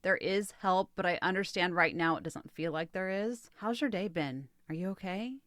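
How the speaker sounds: kind response. Shown as a demonstration. Therapist models a kind reply to an upset partner, softly. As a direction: ease them down softly with kindness. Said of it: "A kind response sounds like".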